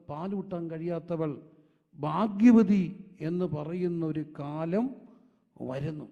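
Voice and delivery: prophetic proclamation, building to a loud drawn-out peak; rising pulpit declamation; declaimed preaching. Real, not acted. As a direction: proclaim it phrase by phrase, stretching key words.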